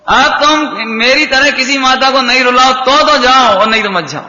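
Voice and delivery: Rukmini. Retold or imitated. Mother setting her departing son a condition, lightly voiced pleading demand. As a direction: press the condition firmly, as an imploring mother. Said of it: "Rukmini ये बोली".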